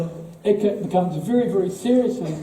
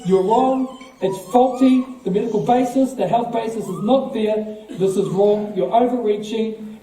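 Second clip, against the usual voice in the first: raised, insistent quoted objection; retold firm rebuke; 3 semitones higher than usual. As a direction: push each accusation out emphatically. Retold scientists rebuking a health official.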